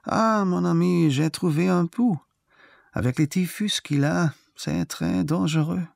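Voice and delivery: high-pitched prophet declaiming in French; great prophet. A narrator's reading. Great prophet rises to warn in French, high declamation. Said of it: "erhob sich ein großer Prophet und sagte".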